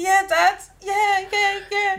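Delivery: high, loud, excited agreeing; eager child imitation. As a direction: play an over-keen kid answering dad. Acting eager child to dad.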